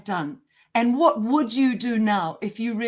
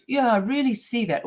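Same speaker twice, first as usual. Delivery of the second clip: mock insincere agreement; 2 semitones higher than usual. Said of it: "all insincere, all glib".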